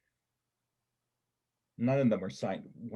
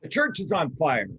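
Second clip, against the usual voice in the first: alarmed cry; 6 semitones higher, 6 dB louder than usual. Acted. Seeing flames outside the window.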